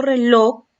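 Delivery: reloj loud, with a strong LOJ; stress on last syllable. Shown as a demonstration. Teacher showing an untilded aguda, last syllable of reloj stressed. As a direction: punch the end of reloj, re-LOJ. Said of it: "es una palabra aguda".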